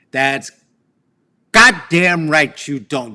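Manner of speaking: loud, slow, stern goddamn; mock furious mother. Mother rebuking her son, in a loud slow mock fury. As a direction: bite down on goddamn like an angry mom. Mother scolding in retold quarrel.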